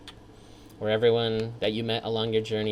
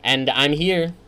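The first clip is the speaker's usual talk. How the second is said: raised, mocking sarcastic thank-you; 4 semitones higher, slower than usual. Gamer mocking thanks to Mom and Dad, sarcastic. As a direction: sneer out a fake congratulations.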